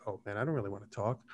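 fast, soft, reluctant aside under the breath; reluctant mumble. Retold or imitated. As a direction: grumble it to yourself. Inner reluctance before texting back.

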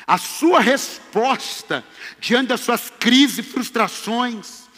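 loud, high preaching build to a shout. Acted. Preacher rousing the congregation, full-force preaching.

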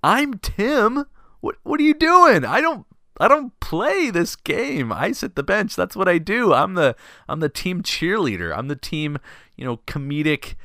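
high, strained, frantic pleading; panicked protest. Retold or imitated. Benchwarmer begging the coach not to start him, panicked. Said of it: "So I'm thinking".

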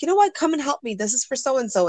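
cheerful invitation. Retold or imitated. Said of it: "And I'd be like".

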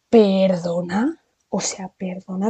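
slow, stretched ¿Perdona? in disbelief; incredulous. Real, not acted. She tells viewers the stranger's line shocked her, slow disbelief. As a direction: pull out the word as if you can't believe it.

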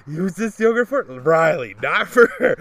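loud imitation of an angry husband, climbing to a high curse; hammed-up shopping tantrum; mock spiteful rant. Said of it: "And he's like".

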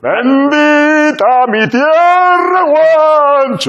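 proud solemn exclamation. Acted.

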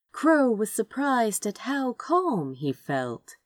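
ordinary delivery, nothing marked

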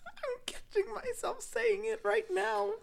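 put-on high, slow in the posh accent. Admitting she's caught herself, in the eighteen-hundreds rich accent. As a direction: drag it out in that fancy accent. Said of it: "I even said it, like, slowly".

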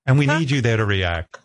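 lightly imitated British producer; businesslike request in a rough British accent; amateur, half-done British accent. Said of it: "She had a British accent".

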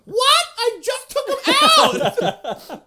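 very high, loud offended call; mom from another room. Retold or imitated. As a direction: call back from the other room. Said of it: "My mom from the other room".

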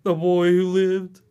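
Voldemort line. Retold or imitated. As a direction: intone it like a dark lord. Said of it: "And he's like".

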